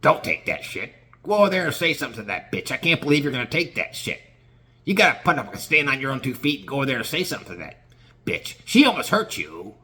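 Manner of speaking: fast, goading devil-on-the-shoulder voice, the opening line whispered; the devil side needling the coworker to go confront the deli girl. Acted. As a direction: egg him on like the little devil in his ear. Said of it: "you gotta listen to your devil side".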